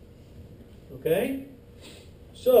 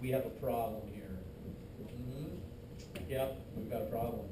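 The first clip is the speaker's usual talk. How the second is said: mock white blood cell; 9 semitones lower, 12 dB quieter than usual. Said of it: "I'm like".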